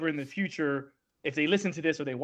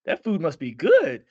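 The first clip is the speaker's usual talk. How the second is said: teasing joke; 4 semitones higher, 6 dB louder than usual. Retold or imitated. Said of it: "make a joke about it".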